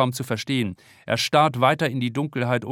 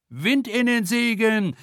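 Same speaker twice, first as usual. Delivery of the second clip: shrieking; 10 semitones higher, 3 dB louder, slower than usual. A narrator's reading. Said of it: "kreischt Silja".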